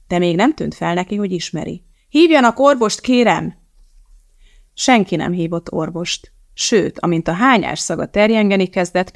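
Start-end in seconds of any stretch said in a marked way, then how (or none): 2.1-3.6 high, loud urgent shout; calling for help. A narrator's reading. Elizabeth shouts to the fleeing crowd for a doctor.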